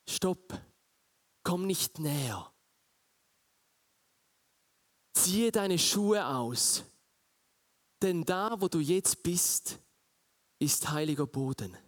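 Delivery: voice from the bush. Acted. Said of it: "du hörst eine Stimme aus dem Busch".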